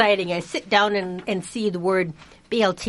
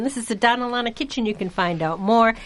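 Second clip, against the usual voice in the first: radio announcer; 3 semitones lower than usual. Acted. Station ID read over music.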